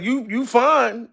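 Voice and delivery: ordinary delivery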